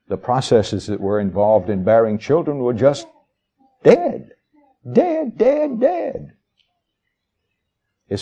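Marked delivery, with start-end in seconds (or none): 3.8-6.3 emphatic repetition. Real, not acted.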